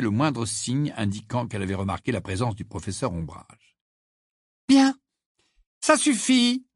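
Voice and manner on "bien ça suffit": high, raised teacher's voice; commanding classroom call; calling to order. A narrator's reading. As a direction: silence the class firmly.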